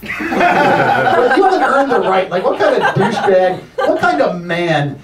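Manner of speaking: high-pitched, exasperated comic outrage; indignant rant. Pretend. Comic raging at a band name, in mock outrage. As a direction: rail against them in hammed-up indignation.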